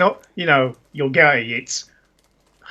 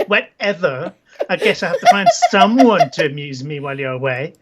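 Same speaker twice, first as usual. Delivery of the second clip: Isabella. Acted. Girlfriend brushes off her absent boyfriend, put-on accent. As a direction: dismiss him in a put-on accent, close to laughing. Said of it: "this is the best accent ever".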